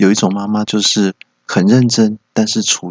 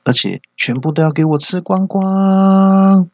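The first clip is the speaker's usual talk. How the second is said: angry mom; 5 semitones higher than usual. Retold or imitated. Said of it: "马上就很火大".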